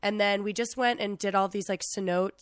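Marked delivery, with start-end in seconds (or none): none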